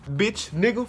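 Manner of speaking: whispered laughing curse; wheezing in laughter; breathy laugh. Real, not acted. Laughing disbelief.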